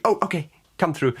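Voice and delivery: high, put-on Irish accent; Louis. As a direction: give in with a bad Irish lilt. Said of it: "Louis would be".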